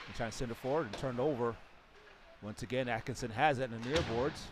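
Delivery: live hockey play-by-play, rising with action; sports commentary. Real, not acted. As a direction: call the game as it happens.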